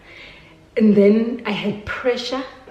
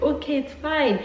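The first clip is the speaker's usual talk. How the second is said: mother's voice, higher and louder, urging her to breathe; mother on the phone urging her panicking daughter to breathe, high and louder; urgent mother; 7 semitones higher, 4 dB louder than usual. Retold or imitated. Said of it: "She's like".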